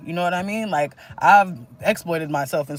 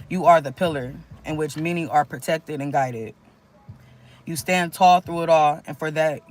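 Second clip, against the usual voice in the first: inspirational reading. Acted. Reads channeled uplifting message.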